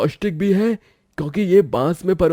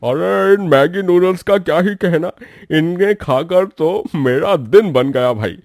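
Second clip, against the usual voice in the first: excited praise; 5 semitones lower, 10 dB louder than usual. Acted. Customer raves about noodles.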